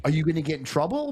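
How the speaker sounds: lightly voiced worried mom; mom's voice. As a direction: fret like a mother. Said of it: "she's like".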